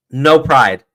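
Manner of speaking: normal talking voice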